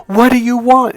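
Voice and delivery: high, loud, doting wife imitation; happy and proud. Wife hugging husband asks what he wants, happy and proud. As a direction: mimic a wife pleased to be asked. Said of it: "in a happy, like, really proud kind of way".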